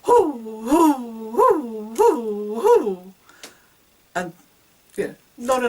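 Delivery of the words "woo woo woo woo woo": high, loud woos pushed hard; emphatic diaphragm woos. Shown as a demonstration. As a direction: punch every woo from the belly. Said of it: "put some emphasis in it".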